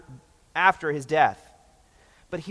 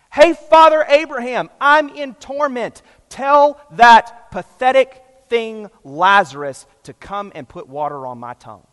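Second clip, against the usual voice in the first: higher, louder bossy demand that fades at the end; commanding rich man; 4 semitones higher, 10 dB louder than usual. Retold or imitated. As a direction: order Abraham around, with no pleading. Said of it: "It's a command".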